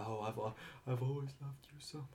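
mock love confession. Former simp reenacting his confession, mock lovesick. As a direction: confess love timidly, sending yourself up. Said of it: "there's always the confession".

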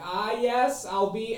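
high Minnesota gnome calling out; gnome shopkeeper calling. Acted. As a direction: call from the back room. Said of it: "you hear from the back".

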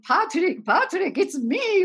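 a father pleading with his crying son; Arnold pleading. Retold or imitated. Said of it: "And Arnold's like".

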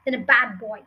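a touch of scorn, emphatic on key words; mildly contemptuous head teacher; lightly voiced stern headmistress.

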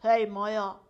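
low, loud call; Rex the dog. A narrator's reading. Rex calls out to Maya, low hailing voice. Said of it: "diye seslendi Rex".

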